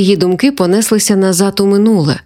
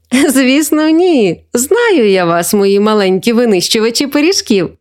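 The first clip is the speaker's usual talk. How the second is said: higher-pitched teasing, lightly voiced; amused grandma; 4 semitones higher than usual. Grandma teasing pie-devouring grandchildren, amused. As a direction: tease the little ones fondly. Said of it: "засміялася бабуся".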